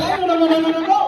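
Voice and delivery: hammed-up shoo-away, pitch climbing at the end; playful mock panic chasing someone off; mock panicked refusal. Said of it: "Sabi niya".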